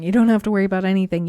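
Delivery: rising to a reassuring punchline; emphatic climax. Real, not acted. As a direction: drive the last line home with force. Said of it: "climax of the repeated list".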